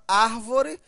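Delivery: árvore with a strong, long ár; stress on first syllable. Shown as a demonstration. Teacher showing árvore as proparoxítona, strong first syllable. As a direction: lean on the ÁR of árvore. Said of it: "A sílaba tônica é a antepenúltima".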